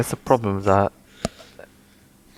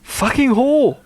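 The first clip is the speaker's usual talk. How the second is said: shrieked insult, much higher; high-pitched yell; 3 dB louder, much slower than usual. Acted. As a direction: scream it in a squeaky voice. Character bellows insult in novel.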